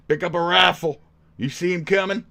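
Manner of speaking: high, loud mock soldier yelling; mock redneck voice. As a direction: ham up a gun-toting hick. Mocking the man in the photo.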